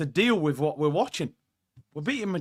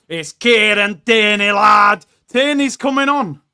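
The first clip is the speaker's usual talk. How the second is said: loud, drawn-out announcement of a favourite; excited shout; 3 semitones higher, 10 dB louder than usual. Real, not acted. Fan seeing Tierney coming on, excited shout. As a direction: belt out the name with delight.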